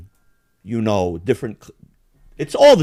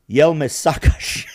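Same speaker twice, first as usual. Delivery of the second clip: Macedonian phrasing. Retold or imitated. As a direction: say "Jel me sakaš?" slowly, Macedonian style. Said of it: "Macedonians say".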